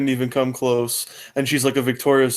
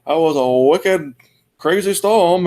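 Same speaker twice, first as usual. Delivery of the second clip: put-on Boston accent; 4 semitones higher than usual. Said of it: "in Massachusetts or in Maine".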